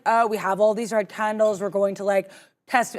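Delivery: lightly put-on Valley Girl lilt; a hint of a Valley Girl, teasing herself. Mocking her own trade plan in a light Valley Girl voice. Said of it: "I don't know why I'm doing a Valley Girl voice".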